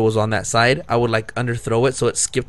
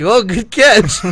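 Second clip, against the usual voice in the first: retold exclamation; 8 semitones higher, 6 dB louder, much slower than usual. Retold cheer after a near hit.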